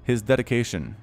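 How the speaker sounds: mock Russian accent, a little grand; bad Russian accent. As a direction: boast about the Reaper in a cheesy Russian accent. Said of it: "My Russian accent is so bad".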